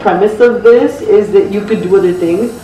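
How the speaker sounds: muffled behind plastic mask; speaking under rigid mask; through a face mask. Real, not acted. Seen 1: Rigid white LED mask covers her whole face throughout the speech.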